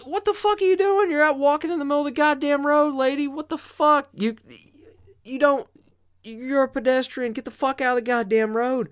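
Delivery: high, loud retold yelling at the lady; mock furious shout at a jaywalker; retold angry rant. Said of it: "I'm like".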